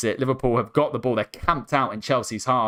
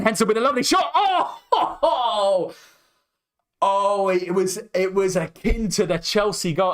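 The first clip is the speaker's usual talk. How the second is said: excited laughing commentary; 6 semitones higher than usual. Real, not acted. Fan commentator thrilled by a long-range shot, laughing high and excited. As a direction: pitch jumps way up, laughing through the call.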